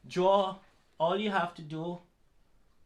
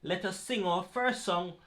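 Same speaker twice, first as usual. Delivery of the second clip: put-on kids party entertainer; 2 semitones higher than usual. Calling out to boys and girls.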